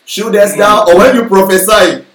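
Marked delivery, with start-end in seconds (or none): 0.1-0.8 louder, lofty mock prayer in old English; a hammed-up King James prayer; mock heavenly prayer voice. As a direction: pray grandly as if in heaven's language. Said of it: "some of you think that is heavenly language".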